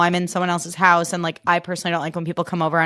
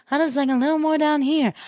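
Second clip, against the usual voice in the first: higher but pulled down a notch; Huda pitch; 8 semitones higher than usual. Shown as a demonstration. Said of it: "dialed back out".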